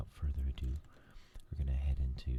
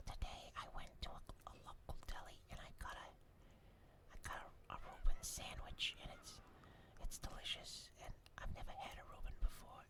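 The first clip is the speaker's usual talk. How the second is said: much softer delighted ASMR whisper; Morpheus soft whisper; 11 dB quieter than usual. Retold or imitated. Morpheus telling viewers about his Reuben, soft excited whisper. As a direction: share a simple joy in a hushed voice. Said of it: "he's like".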